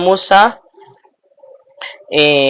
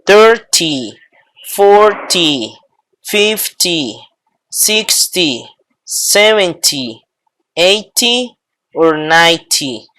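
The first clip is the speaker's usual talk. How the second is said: Thirty, forty: stress on the first syllable, THIR-ty; slower than usual. Shown as a demonstration. Teacher shows stress at the start of the tens. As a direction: hit the start, FOR-ty, FIF-ty. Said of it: "no se hace el acento al final, sino al principio".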